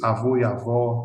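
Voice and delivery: AVÓ twice, open O against closed O; vowel contrast. Shown as a demonstration. Teacher contrasting Portuguese words, AVÓ open versus closed O. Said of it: "Lo que no ocurre en portugués".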